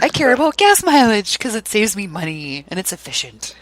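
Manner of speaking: put-on sensible old-dad voice; mock old father. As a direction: play a thrifty father, hammed up. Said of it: "like my father in a way, like, old".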